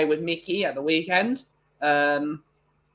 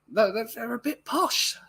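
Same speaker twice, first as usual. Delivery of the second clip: lightly put-on posh English accent, higher and slower; mock posh; 7 semitones higher, slower than usual. Teasing friends as posh.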